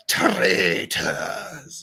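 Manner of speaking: deep Scottish Traitors with a rolled R; low rolling Scottish R on Traitors; Alan Cumming Scottish. Retold or imitated. Podcaster imitates the Scottish host saying traitors. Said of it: "Alan Cumming does a lot of R rolling".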